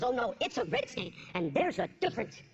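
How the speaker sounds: low, quick redneck warning; Cleveland guy. Retold or imitated. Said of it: "He goes".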